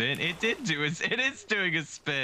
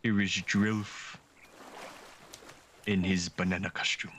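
refined scholarly voice; 8 semitones lower, 4 dB quieter than usual. Acted. Presenting Drilf to his friend in a lightly refined voice. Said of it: "sounding more refined".

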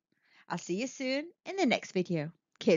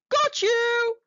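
sharp high triumphant snap, louder; snapped; 12 semitones higher, 6 dB louder than usual. Acted. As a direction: snap it as the shark grabs his prey. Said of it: "he snapped".

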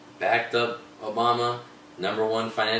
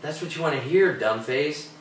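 heated, higher-pitched scolding; exasperated rant; 5 semitones higher than usual. Real, not acted. Host berating gullible voters over politicians, exasperated. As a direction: scold them like they are being fools.

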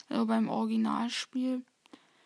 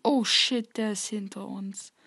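being chased; 2 semitones lower, 3 dB louder than usual. Real, not acted. Enemy behind them.

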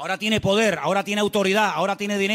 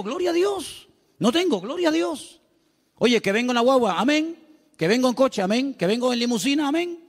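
mock pious believer; 5 semitones higher than usual. Mimics a churchgoer's pious exclamations.

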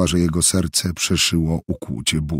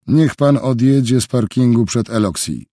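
higher, firm instruction over the phone; commanding order; 5 semitones higher, 3 dB louder than usual. Acted. Helge phones the driver, ordering him away firmly. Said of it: "rozkazał mu".

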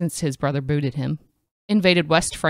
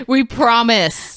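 laughing; 10 semitones higher, 5 dB louder, slower than usual. Real, not acted. Laughing promise.

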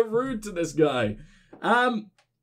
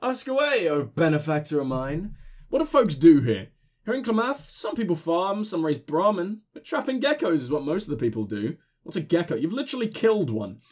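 put-on drunk voice. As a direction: play the town drunk. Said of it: "giving my drunk voice".

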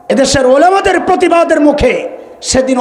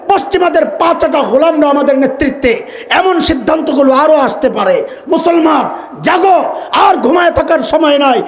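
fiery rallying sermon; 3 semitones higher than usual. Real, not acted. Preacher calling Muslims to rise with the clerics, shouted rally. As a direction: build to a battle cry.

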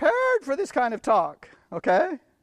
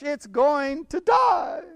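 1 emphatic slow declaration; 3 semitones higher, slower than usual. Real, not acted. Preacher stresses fate of flesh.

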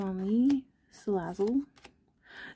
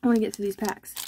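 out of breath. Real, not acted. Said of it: "Sorry if I seem a little bit out of breath".

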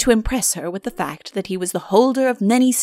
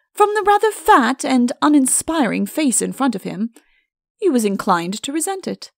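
ordinary delivery

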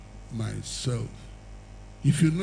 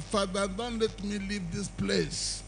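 pleading softly; 5 semitones higher, 6 dB quieter than usual. Retold or imitated. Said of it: "I said to God".

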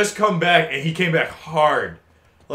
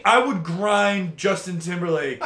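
laughing. Real, not acted. Confessing, giggling.

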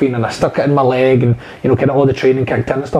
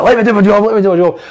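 urgent plea; 6 semitones higher, faster than usual. Retold or imitated. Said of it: "He's like".

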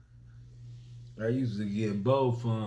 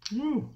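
hot food whoop. Real, not acted. Mouth burning from hot food.

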